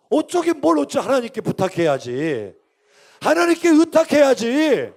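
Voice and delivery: loud, high, exhorting sermon voice; forceful preaching. Real, not acted. Preacher rebuking the king for playing God, forceful. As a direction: drive each point home, stretching the endings.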